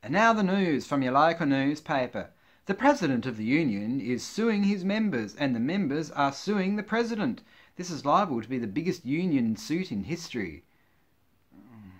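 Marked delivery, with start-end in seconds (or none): 0.0-10.6 lively newsreader delivery; measured, emphatic mock-bulletin voice; mock news read. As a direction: announce it like a local news bulletin. Reads mock newspaper items.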